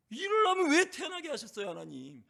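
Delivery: high, loud pleading protest; a lament flung upward, high and loud; Job's anguished cry. Retold or imitated. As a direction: cry it out at God as Job. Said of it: "욥이 할 말 안 할 말 하나님께 다 했잖아요".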